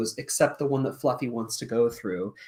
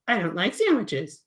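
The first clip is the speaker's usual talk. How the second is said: cat puppet; 6 semitones higher than usual. Acted. Fluffy denies.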